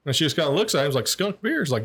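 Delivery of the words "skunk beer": put-on girl voice.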